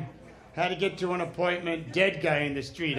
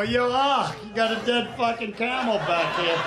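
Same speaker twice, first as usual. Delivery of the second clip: loud, high street holler; tough New Yorker; 5 semitones higher, 4 dB louder than usual. Retold or imitated. New Yorker yelling at the cab driver, loud mock holler. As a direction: bark it at the cabbie. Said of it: "I go".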